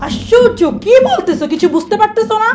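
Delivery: चिल्लाना. Acted. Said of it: "আপনি কেন চিৎকার করতেছেন?".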